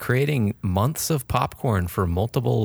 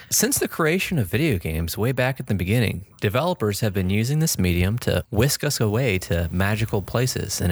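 fighting game announcer. Acted. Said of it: "I love your announcer voice".

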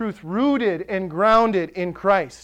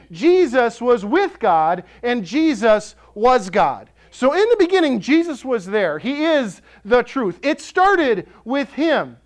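fired-up preaching; 3 semitones higher than usual. Acted. Pastor to congregation about John one, fired up. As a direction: build the sermon to full fire.

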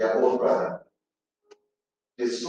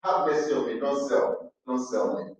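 pleading; 3 semitones lower, 7 dB quieter than usual. Acted. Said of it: "Joseph pleaded".

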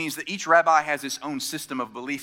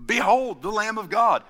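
higher, louder, solemn "Behold"; John the Baptist proclaiming in full voice; proper proclamation; 6 semitones higher, 4 dB louder than usual. Retold or imitated. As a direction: proclaim it like a prophet. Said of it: "or something like that".

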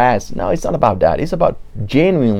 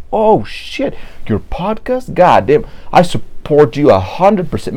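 excited cheering; 5 semitones higher, slower than usual. Retold or imitated. Imagined supportive friend cheering.

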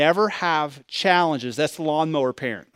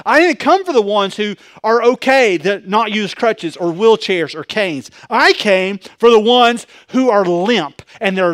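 loud, driving sermon cadence; full-force preaching; 4 semitones higher, 7 dB louder than usual. Acted. Pastor preaching Jesus' words to the congregation, loud. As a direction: pound each I came like a preacher.

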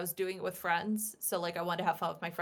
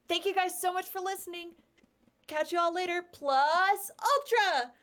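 Deku impression; 10 semitones higher, 3 dB louder than usual. Shown as a demonstration. Guest signing off the interview for listeners, Deku impression. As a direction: sign off in a high, eager character voice, ending big. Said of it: "sign off the interview in your best Deku impression".

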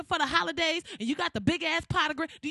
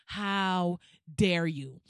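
theatrical outrage; 7 semitones lower, much slower than usual. Acted. Outraged repeat of the question.

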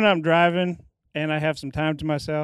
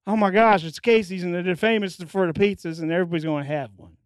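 a mild impression of dad spreading the news; lightly voiced dad; 2 semitones higher than usual. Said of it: "you just became your dad there".

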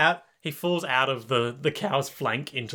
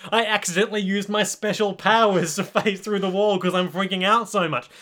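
higher, hammed-up dismay; mock panic; 6 semitones higher, 3 dB louder than usual. Stand freaking out as he phases through the wall, mock panic. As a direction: play a villain flustered by his own blunder.

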